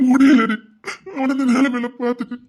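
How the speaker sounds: loud breaking cry; a husband's loud anguished outburst. Acted. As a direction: let it burst out in grief. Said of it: "ஏன் அழுதுட்டு இருக்கீங்க?".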